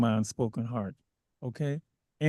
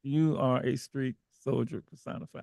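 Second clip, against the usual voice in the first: "You" lower and softer, rising end; softer repeat; 6 semitones lower, 7 dB quieter than usual. Real, not acted. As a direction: say it again gently, ending up.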